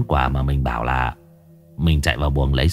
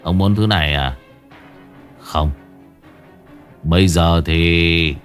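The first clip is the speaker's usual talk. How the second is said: smug sneer; 4 semitones lower than usual. Acted. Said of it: "cười nhếch mép nửa miệng".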